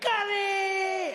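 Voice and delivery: high sobbing shriek; crying scream. Retold or imitated. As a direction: wail the word like a tragedy. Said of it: "he'd be like".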